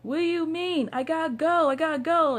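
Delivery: high, confused, impatient voice; drunk guy voice. Retold or imitated. Drunk driver answering through the door, high and flustered. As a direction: play the flustered drunk who has to leave. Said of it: "he's like".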